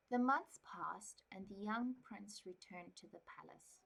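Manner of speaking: calm, even storybook reading; story narration. Acted. Reads novel aloud.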